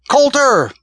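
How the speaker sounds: desperate, furious high yell; yelled name. A narrator's reading. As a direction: bellow it with everything you have. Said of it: "yelled this Mills".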